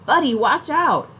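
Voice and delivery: high, loud warning shout; yelling a warning. A narrator's reading. Boy warning his little brother of a scorpion, loud high yell. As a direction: yell to get him out of the way. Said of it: "then yells".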